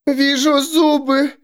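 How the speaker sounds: high, slow, eerie voice; female seer voice. A narrator's reading. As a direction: intone it as the woman seer. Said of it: "сказала женщина".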